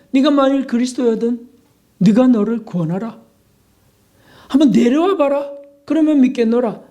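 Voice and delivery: mocking taunt. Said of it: "이렇게 또 조롱하네요".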